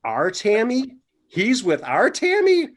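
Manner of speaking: rising, incredulous "our Tammy?"; surprised. Retold or imitated. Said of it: "she goes".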